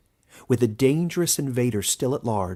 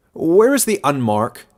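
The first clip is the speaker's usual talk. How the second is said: higher, much louder commanding call; demanding elder; 7 semitones higher, 10 dB louder than usual. A narrator's reading. Elder demanding the outcast before the crowd, loud. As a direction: bark the question at the crowd.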